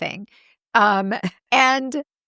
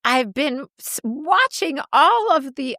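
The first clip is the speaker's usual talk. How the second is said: raised, slow imitation of her mom; mom's voice; 4 semitones higher than usual. Daughter quoting her mom about the Osbournes, lightly higher. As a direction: playfully mimic her mother's chatter. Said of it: "she goes".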